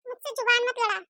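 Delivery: curt order, fast at the end; sharp mother-in-law. Acted. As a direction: shut her up and send her off. (ज़बान लड़ाने पर झिड़कती सास)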